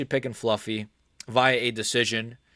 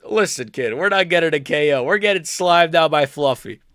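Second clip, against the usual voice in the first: put-on listen kid voice; 3 semitones higher, 5 dB louder than usual. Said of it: "I like saying the listen, kid".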